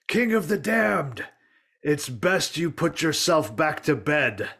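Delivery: put-on high, defiant young hero; heroic cry. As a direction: call out boldly at the towering foe. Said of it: "He cries out in response".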